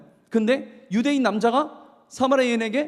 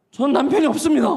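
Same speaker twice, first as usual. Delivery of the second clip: loud denial; 7 semitones higher, 6 dB louder than usual. Retold or imitated. Woman denies having husband.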